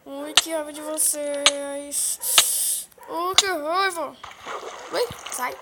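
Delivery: very slow, drawn whiny complaint. Real, not acted. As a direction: stretch it out in a whine. Repeats, more whiny.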